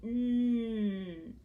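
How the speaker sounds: held "mm" for the n; isolated sound. Shown as a demonstration. Teacher gives moon's third sound, "mm" held long. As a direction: sustain "mm" on its own. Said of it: "And the third sound is".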